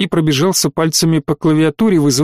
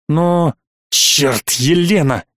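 вспылив; much slower than usual. A narrator's reading. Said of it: "вдруг взвился Саттор".

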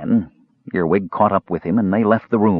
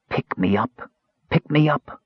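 small, eerie calling voice; lightly voiced magic box; talking box; 5 semitones higher than usual. A narrator's reading. Talking box calls to the kender.

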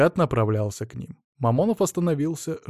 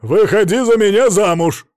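much louder, higher bellow; громко проорал; 8 semitones higher, 10 dB louder than usual. A narrator's reading. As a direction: roar the proposal at her. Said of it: "проорал он".

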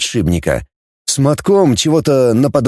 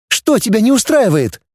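higher, mildly heated; girl Dana, heated; 11 semitones higher than usual. A narrator's reading. Dana angry.

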